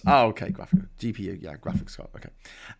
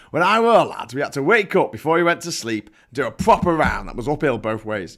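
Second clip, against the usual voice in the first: hammed-up Yorkshire old-timer; mock Yorkshire accent. Shown as a demonstration. Host reading a viewer's childhood boast, mock Yorkshire accent. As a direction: put on a broad Yorkshire accent for the tall tale. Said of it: "do it in a Yorkshire accent".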